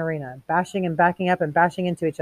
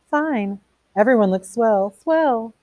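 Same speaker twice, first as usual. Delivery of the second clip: mock sarcasm; 5 semitones higher, slower than usual. Montag sarcastic at the party.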